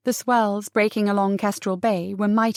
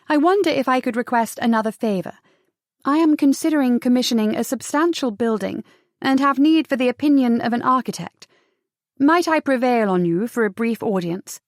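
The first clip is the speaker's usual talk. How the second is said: measured, lightly lifted letter-writer's voice; courteous, poised written request read aloud; formal letter reading; 2 semitones higher than usual. A narrator's reading.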